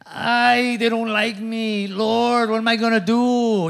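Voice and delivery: soft, strained, fretting voice; anxious whimper. Retold or imitated. Pastor mocking his own worry over critics, soft fretful whine. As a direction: fret like a pastor who thinks nobody likes him. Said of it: "I don't even know why I'm talking like that".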